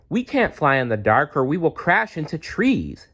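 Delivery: high unvoiced frightened whisper; fearful whisper. Stella Luna to Mother Bat, frightened whisper. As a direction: whisper your fear of the dark. Scared of flying at night.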